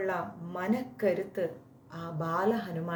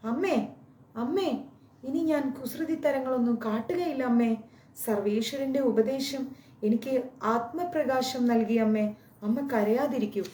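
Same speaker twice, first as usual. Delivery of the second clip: put-on higher child voice, pleading; 4 semitones higher than usual. Little Hanuman begs his weeping mother, higher pleading child voice. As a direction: beg mother like a small boy.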